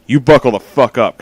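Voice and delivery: shouted, pumped-up warning; loud hype warning. Real, not acted. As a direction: yell it to get them ready. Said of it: "hype warning".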